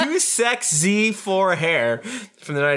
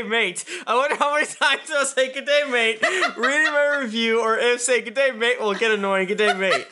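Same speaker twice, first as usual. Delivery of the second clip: high mock Aussie good day mate, through laughter; Australian accent; 9 semitones higher than usual. Host reads Canadian listener's review, mock Australian accent. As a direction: ham up an Australian greeting, laughing.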